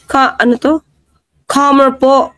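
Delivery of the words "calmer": "Calmer" said British-style with a long open first vowel; mock British accent. Showing viewers how the British say it, mock British accent. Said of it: "Ganyan po ang British".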